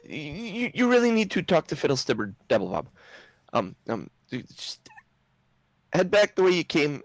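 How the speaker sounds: high, urgent, stammering gnome; nervous gnome insisting, pitch jumping up; flustered gnome. Acted.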